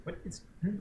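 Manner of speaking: talking through a mouthful; words round a bite of food; mouth full. Real, not acted. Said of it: "My mouth is full".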